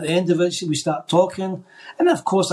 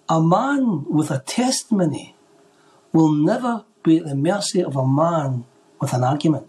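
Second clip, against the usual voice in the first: voice of the Lord. Retold or imitated. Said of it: "And the voice said this".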